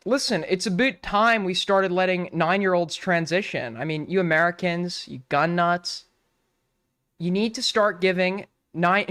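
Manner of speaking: half-hearted mock Canadian accent; bad Canadian accent. Streamer playing a Canadian lecturing Americans, bad Canadian accent. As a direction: lightly attempt a Canadian accent, badly. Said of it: "I can't do a good Canadian".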